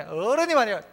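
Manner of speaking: lightly acted reproach; mock scolding. Young person rebuking an elder for not knowing, mock scolding. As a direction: imitate someone telling off an elder. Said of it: "막 이러면서 꾸짖는".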